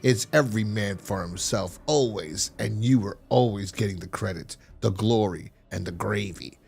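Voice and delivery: a cold schemer sneering at his rival; sneering villain. Retold or imitated.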